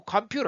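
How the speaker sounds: American flap in 컴퓨터; relaxed flapped T. Shown as a demonstration. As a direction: let the T go loose in 컴퓨터. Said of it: "이렇게 소리 툭 놓아요".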